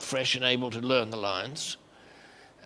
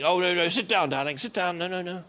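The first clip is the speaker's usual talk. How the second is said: Dame Edna fussing; 4 semitones higher than usual. Retold or imitated. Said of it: "Edna was saying".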